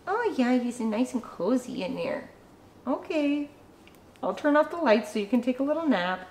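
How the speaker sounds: gentle, hushed cooing; softly doting; soft pet talk. Real, not acted. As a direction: soothe a sleepy dog. Soothing the pet for a nap.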